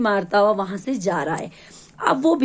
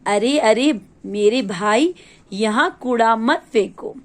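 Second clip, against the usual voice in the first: slow call from a pleading dustbin. Acted. Dustbin begging a boy not to litter, slow pleading call.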